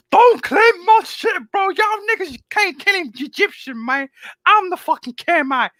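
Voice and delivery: imitating a Jamaican man claiming Egypt; mock Jamaican accent. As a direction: put on a Jamaican park-guy accent. S0 voicing Jamaicans in park.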